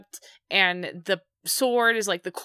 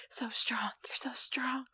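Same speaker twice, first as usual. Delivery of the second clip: giggly prank whisper; 4 semitones higher, 11 dB quieter than usual. Pretend. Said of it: "be like".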